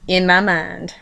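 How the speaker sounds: plain reading voice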